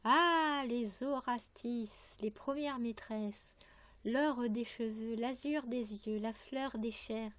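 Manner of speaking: exclaimed opening Ah, then measured verse; poem recitation. Acted. Reads a poem aloud. (récitation de poème, « Ah » initial déclamé)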